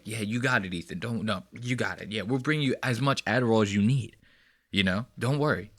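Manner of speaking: hushed, placating aside; mock low-voiced crew reassurance; off-camera crew. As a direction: quietly humour the boss from off camera. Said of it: "like, off camera".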